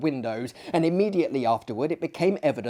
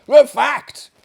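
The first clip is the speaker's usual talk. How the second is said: emphatic insistence; 12 semitones higher, 13 dB louder than usual. Acted. Host insists on the story.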